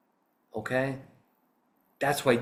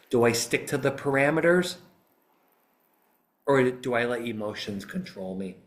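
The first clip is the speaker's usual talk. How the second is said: lawyer addressing jury; 3 semitones higher than usual. Shown as a demonstration. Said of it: "You go".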